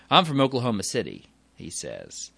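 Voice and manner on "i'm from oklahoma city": quick, louder Southern reply; southern accent. Retold or imitated. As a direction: imitate an Oklahoman's Southern accent lightly. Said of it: "He has this southern accent".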